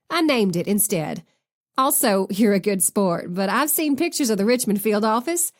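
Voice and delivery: chatty Texas twang, laughing; Southern accent. Acted. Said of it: "laughed even harder".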